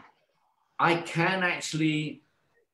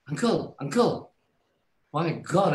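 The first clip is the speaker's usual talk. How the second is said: panicked nurse; 4 semitones higher than usual. Retold or imitated. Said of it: "the nurse was going".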